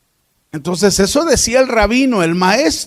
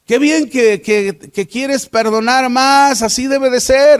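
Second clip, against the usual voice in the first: hammed-up congratulation with a bright call of his name; imagined Jesus heaping praise on Pedro, excited; mock delighted praise; 4 semitones higher than usual. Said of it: "él esperaba que Jesús le dijera".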